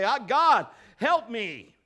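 loud, pleading cry for help; crying out to God. Pretend. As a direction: call out to God in desperation. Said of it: "just say".

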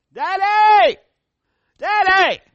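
put-on high, loud little girl crying out for daddy; child calling out. Little daughter at the gate calling her father, high and loud. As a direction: call from the gate like a four-year-old.

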